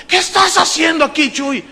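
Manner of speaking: astonished organizer. Retold or imitated. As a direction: imitate someone startled to find him there. Organizer finds him at the door.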